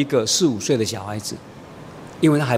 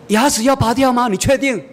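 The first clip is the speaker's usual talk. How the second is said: mock disbelief; 9 semitones higher than usual. Father questions child's rash demand.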